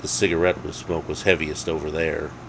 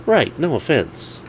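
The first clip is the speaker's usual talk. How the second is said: higher, slower hasty apology; friend's voice; 9 semitones higher than usual. Acted. Alex echoing no offense to Dave, higher voice. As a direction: quickly echo the apology.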